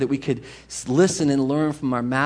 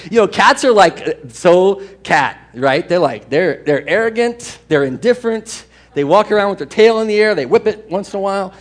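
haughty cats; 3 semitones higher, 7 dB louder than usual. Retold or imitated.

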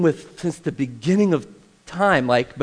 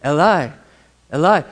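fuller-voiced cry of Eli; firm, measured calling out; stronger inflection; 3 semitones lower than usual. Shown as a demonstration. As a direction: raise the voice a little on each call. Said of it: "or sometimes it's".

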